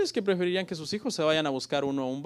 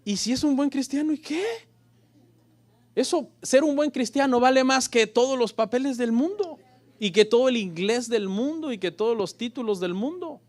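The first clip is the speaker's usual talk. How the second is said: higher and louder, emphatic; fervent preaching; 9 semitones higher, 6 dB louder than usual. Real, not acted. Pastor insisting to the fathers that a good Christian is enough. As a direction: drive the point home with passion.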